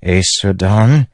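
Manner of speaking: slow, hurt calling of her name; husband saying his wife's name, pained. Acted. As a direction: reach out to her in pain. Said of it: "his voice pained".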